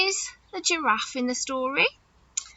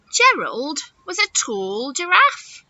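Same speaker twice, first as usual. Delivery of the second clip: slow, clear storybook opening; reading to children; slower than usual. A narrator's reading. Nursery teacher starts the story aloud. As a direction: read it out to little ones. Reads picture book to children.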